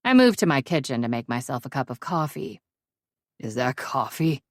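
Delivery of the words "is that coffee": rasping. Acted. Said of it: "he rasps".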